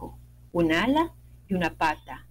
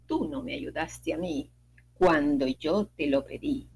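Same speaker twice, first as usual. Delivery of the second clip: cold water voice; 5 semitones lower than usual. Acted. Water answers coldly.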